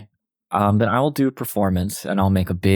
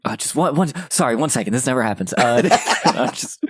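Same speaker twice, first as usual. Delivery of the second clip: higher, laughing, fumbling apology; flustered laughing; 5 semitones higher than usual. Acted. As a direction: play flustered and giggly. Flustered character drops papers.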